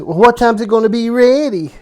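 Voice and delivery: high, sassy, hip-twisting daughter voice; sassy daughter impression. Father mimicking his daughter on the phone, sassy and high. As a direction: put some sass and swing into it. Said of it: "She says it like that, twist her hips".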